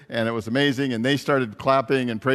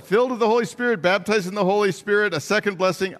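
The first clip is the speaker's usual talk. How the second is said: eager rush; 5 semitones higher than usual. Retold or imitated. Eager list of names for it.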